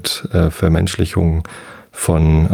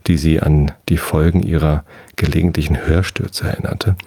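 calm bedtime reading of a novel with lightly voiced characters; story narration. A narrator's reading. Podcaster reading Moers chapter to sleepy listeners, calm storytelling.

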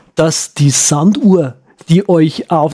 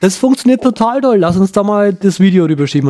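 put-on higher, eager young woman; 3 semitones higher than usual. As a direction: play the twenty-something friend. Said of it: "So ein junges Mädel".

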